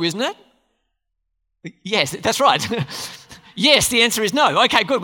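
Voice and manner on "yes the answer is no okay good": louder, driving it home; loud affirming. Real, not acted. Preacher to his church, loud and pleased. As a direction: punch the yes to the crowd.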